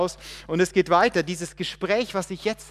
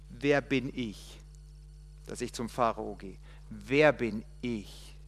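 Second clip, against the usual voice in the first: doubting Moses; 5 semitones lower, 6 dB quieter than usual. Acted. Moses asking God who he is, soft and doubtful. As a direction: let the question sink inward.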